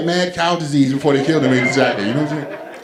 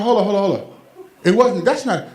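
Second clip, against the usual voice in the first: climbing higher and louder, mock disbelief; incredulous outburst; 7 semitones higher, 3 dB louder than usual. Comedian correcting Doctor Rob about his shorts, rising incredulous shout. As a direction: bust out laughing as you correct him. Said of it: "I said".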